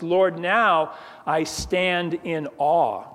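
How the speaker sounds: slow, hushed-awe reading; awed, slow. Acted. Habakkuk turning to God in awe, slow and reverent. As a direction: let the awe slow every word.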